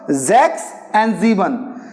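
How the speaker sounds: "Zex" and "Sieben" both begun with a voiced z; initial S as Z. Shown as a demonstration. Teacher shows German initial S, "Zex" and "Sieben" with z. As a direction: buzz the first sound of "Zex" and "Sieben". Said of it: "we will pronounce it as Z".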